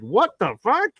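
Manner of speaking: high, incredulous outburst rising to a shout; retold outburst. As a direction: relive standing up in the theater in disbelief. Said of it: "audibly got up and said".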